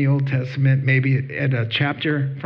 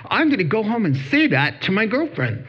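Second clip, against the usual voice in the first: excited; 8 semitones higher than usual. Retold or imitated. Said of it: "he's all excited".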